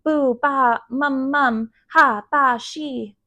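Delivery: put-on sleepy-time baby babble; disconnected baby syllables in a child voice; babbling toddler. A narrator's reading. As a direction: babble nonsense like a little child. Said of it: "Fudge started babbling".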